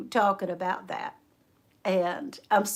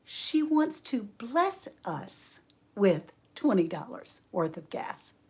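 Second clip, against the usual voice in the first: slow, spaced-out clarification; pointed explaining; 4 dB quieter, slower than usual. Retold or imitated. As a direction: imitate a man spelling it out. Old man explains to wife slowly.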